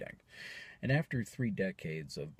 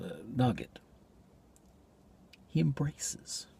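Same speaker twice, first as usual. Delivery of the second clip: intense, pondering stage delivery, louder on key phrases; dramatic monologue; 8 semitones higher, 11 dB louder than usual. Acted. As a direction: perform it as a troubled stage soliloquy.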